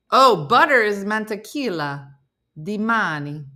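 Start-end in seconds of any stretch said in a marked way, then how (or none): 1.0-3.4 Spanish words with an Italian lilt; Italian-tinged Spanish, phrase by phrase; slightly Italian-accented Spanish; Italian-sounding Spanish. Shown as a demonstration. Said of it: "I make everything sound Italian".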